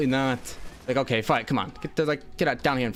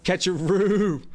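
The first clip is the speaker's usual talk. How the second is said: excited call; 7 semitones higher, 4 dB louder, slower than usual. Real, not acted. Calling out in game.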